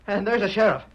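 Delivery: high, loud stunned disbelief; can't believe his eyes; shocked disbelief. Acted. Shock at sheriff alive.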